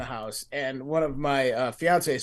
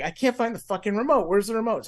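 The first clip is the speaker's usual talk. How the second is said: higher-pitched mock freak-out; retold frantic searching, voice pitched up; 6 semitones higher than usual. Retelling a hunt for the remote, freaked out. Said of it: "and I freaked out".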